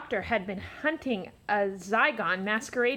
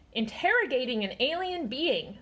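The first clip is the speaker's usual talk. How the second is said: snapped. Acted. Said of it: "snapped Winnie".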